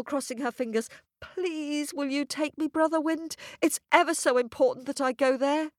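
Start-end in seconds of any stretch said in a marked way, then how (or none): 1.2-5.7 higher, quick, sweet pleading; pleading girl. Acted. Girl begging Brother Wind to take her, high and quick. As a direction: beg him nicely and fast.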